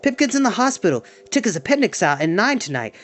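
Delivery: high-pitched relieved shriek easing down; shrieking with relief. Acted. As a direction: blurt the good news as you run. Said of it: "He ran along the sidewalk shrieking".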